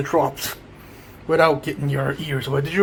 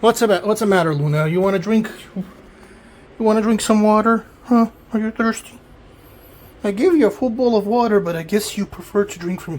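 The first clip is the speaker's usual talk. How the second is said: talking to a cat; 5 semitones higher, 4 dB louder than usual. Real, not acted.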